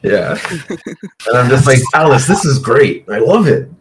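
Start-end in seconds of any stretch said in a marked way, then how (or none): 1.9-3.7 bright gushing praise, a bit louder; excited. Acted. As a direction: gush happily over the food. Player gushes in character.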